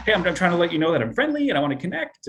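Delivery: high and quick, pleading for approval; eager to please. Retold or imitated. Anxious salesperson imitated trying to connect, eager and rising. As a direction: rush it out, desperate to seem friendly. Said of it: "appeal to someone to get them to like them".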